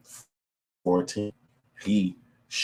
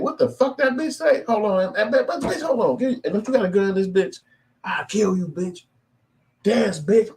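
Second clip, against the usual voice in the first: shrill-pitched, loud furious threats, much higher; furious high rant; 4 dB louder than usual. Retold or imitated. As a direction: yell it high and wild like he's lost it. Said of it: "He said".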